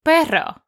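perro with a rolled Spanish r. Shown as a demonstration. Teacher modelling the Spanish word for kids, rolled r. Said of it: "Do you know dog in Spanish is".

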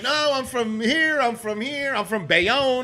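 high, slow insistent protest; bar crowd protesting. Retold or imitated. Bar patrons answering chef, high insistent protest. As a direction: everyone insisting they're local. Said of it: "everyone's like".

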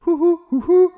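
high hooting owl call, stretched at the end. Retold or imitated. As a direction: hoot it up high like a barred owl. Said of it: "their call sounds like".

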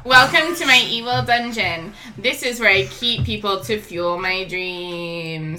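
slow, soft-spoken villain monologue; slow theatrical villain menace. Acted. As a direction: savour each threat like a hammy villain. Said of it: "still trying to do my evil villain speech".

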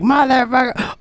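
hammed-up road rage swear; mock curse. Driver before recognising someone, mock curse. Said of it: "when you're like".

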